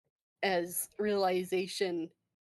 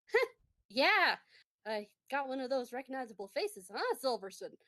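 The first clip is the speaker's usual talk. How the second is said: higher-pitched, teasing nudge to a colleague; snorting ribbing; 4 semitones higher than usual. Acted. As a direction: open with a snort, then rib them quickly. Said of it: "she kinda snorts and".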